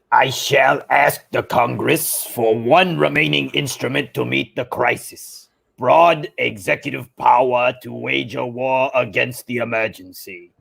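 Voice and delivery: lightly put-on villain's voice; measured impression, dropping off at the end; Palpatine. Resident Palpatine rereads the quote on request, light impression. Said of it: "could you reread that quote in Palpatine's voice?".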